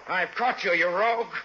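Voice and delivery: high, loud and gloating over a caught crook; triumphant shout. Acted. Hero pins the thief on the sidewalk, shouting in triumph. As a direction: bark it down at the man you just tackled. Pinning the thief after tackle.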